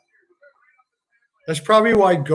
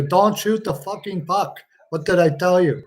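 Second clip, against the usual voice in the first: French Canadian coach slipping into Italian; a botched French Canadian scolding, half Italian; terrible French Canadian accent; 2 semitones higher than usual. Acted. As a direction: put on a bad French Canadian accent, mock angry. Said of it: "That was Italian. I, I got a terrible French Canadian accent".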